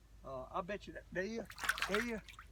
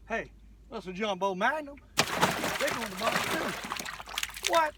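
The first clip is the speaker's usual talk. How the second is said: excited; 4 semitones higher, 8 dB louder, slower than usual. Real, not acted. Spots a big school of fish.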